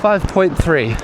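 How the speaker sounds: talking mid-run, a little puffed; while running. Real, not acted. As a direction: speak between strides on a jog. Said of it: "let's see how many kilometers we've done".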